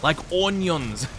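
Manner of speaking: slow put-on ogre voice; Shrek impression. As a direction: finish the ogre bit, slowly. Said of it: "I wish I could do a Shrek impression".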